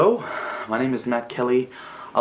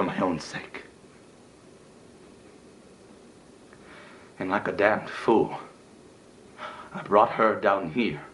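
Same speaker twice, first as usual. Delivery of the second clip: hushed, halting regret; subdued hurt; 3 semitones lower, 4 dB quieter than usual. Acted. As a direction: confess it quietly and painfully. Acted painful confession of lost love.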